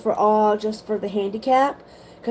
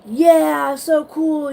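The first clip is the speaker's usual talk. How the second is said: mock excited scream; 6 semitones higher, 4 dB louder, much slower than usual. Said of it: "I'm screaming at the first part of the ride".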